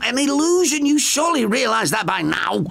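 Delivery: put-on high elderly woman's voice, alarmed; high, startled sister's voice; Frances, frightened. A narrator's reading. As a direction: gasp it out as the frightened old sister.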